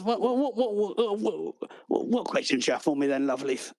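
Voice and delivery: lightly laughing, spinning clerk; a hint of a giddy host. The clerk spins in his chair asking for questions, giggly.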